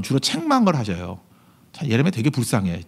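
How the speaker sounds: ordinary delivery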